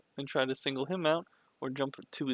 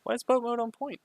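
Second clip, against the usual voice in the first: exasperated yelling; 9 semitones higher, 4 dB louder than usual. Real, not acted. Coach yelling at VOD mistakes.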